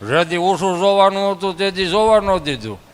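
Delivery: a hint of a grumpy grandpa speaking from under his cloth; grumpy old grandpa.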